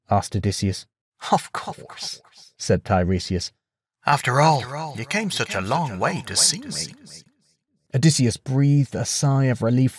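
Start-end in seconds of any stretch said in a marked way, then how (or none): 1.3-6.9 soft, airy ghost voice; knowing and a bit amused; ghostly prophet. Acted. Tiresias's shade speaks.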